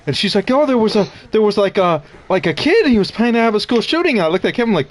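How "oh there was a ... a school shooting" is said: high-pitched, flustered mom imitation; panicking mom. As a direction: stumble through it in mock alarm. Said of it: "my mom was panicking".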